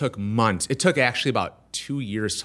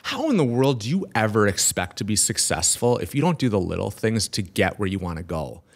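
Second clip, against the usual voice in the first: mildly disgusted scolding, sinking at the end; disgusted mentor. Retold or imitated. Guest imitating mentor reaming him out over little things, mildly disgusted. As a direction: retell a mentor's reproach with understated disgust. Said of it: "He's disgusted at me".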